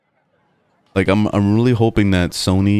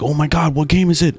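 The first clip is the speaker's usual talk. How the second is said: put-on higher, eager kid voice; 10 semitones higher than usual. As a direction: ask it like a kid itching to tear the wrapping off. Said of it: "they were like".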